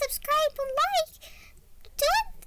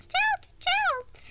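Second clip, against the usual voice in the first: Chao creature voice; 5 semitones higher, slower than usual. Pretend. Voicing her pet Chao Cheese.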